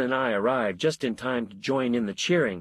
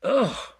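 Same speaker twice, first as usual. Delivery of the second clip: disgusted ugh; 11 semitones higher, 4 dB louder than usual. A narrator's reading. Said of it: "I said, and turned away in disgust".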